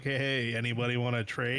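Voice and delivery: slick, pushy used-car salesman voice; shitty salesman voice. Retold or imitated. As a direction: sell it like a sleazy salesman, quickly. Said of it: "shitty salesman voice".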